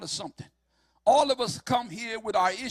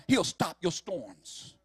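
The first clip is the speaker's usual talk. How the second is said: slow drawn-out shout; 4 semitones lower, much slower than usual. Acted. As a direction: land the promise slowly. Preacher's climactic promise.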